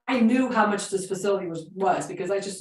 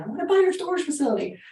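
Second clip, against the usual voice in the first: shouting into the phone; 7 semitones higher, faster than usual. Retold or imitated. Caller shouting to a deaf old owner on the phone. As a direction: yell so a deaf man can hear you. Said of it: "And so I started screaming".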